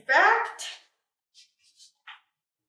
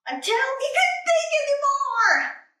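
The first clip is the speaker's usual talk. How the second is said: climactic rise; 13 semitones higher, 4 dB louder than usual. Acted. Thinking reaches a peak.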